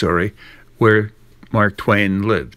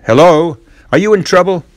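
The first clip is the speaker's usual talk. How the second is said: higher, louder mocking call; teasing Ben; 7 semitones higher, 4 dB louder than usual. Ben teasing Tom at the fence, cheeky call. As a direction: needle him like a cheeky boy.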